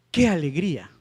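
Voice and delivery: "Qué alegría" as an exclamation, leaning on "Qué"; emphatic accent on QUÉ. Shown as a demonstration. Teacher reads an example to class, emphasis on "Qué". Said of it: "un acento enfático".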